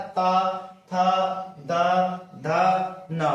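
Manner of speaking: त, थ, द, ध, न recited one by one, tongue on the teeth; teacher sounding out त, थ, द, ध, न against the teeth; dental letter demo. Shown as a demonstration. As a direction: separate dental syllables त, थ, द, ध, न with pauses. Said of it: "जिसमें दांत की मदद से बोला जाता है".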